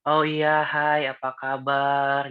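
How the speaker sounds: slow, sweet, gentle greeting; gentle soft-spoken voice. Shown as a demonstration. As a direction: play the stereotypically gentle person, drawn out. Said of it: "suaranya halus gitu".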